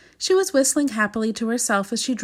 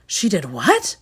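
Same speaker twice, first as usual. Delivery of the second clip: shocked cry; slower than usual. Acted. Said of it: "cried the king".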